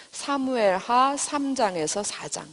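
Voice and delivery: reference read out slowly for notes; slow dictation. Shown as a demonstration. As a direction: give the chapter numbers slowly and clearly. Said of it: "그리고 제목은".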